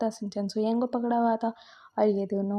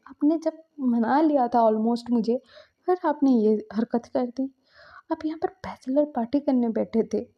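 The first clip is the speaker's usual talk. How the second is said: raised, upset reproach to a partner; hurt angry scolding; 3 semitones higher, 4 dB louder than usual. Acted. Shinchan upbraids Suyang at the pool, hurt and angry. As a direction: scold him, wounded and cross.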